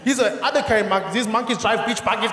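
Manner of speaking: usual speaking voice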